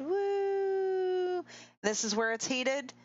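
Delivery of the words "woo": high, long woo; high gleeful-sounding whoop; voicing a player. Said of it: "And Besta said".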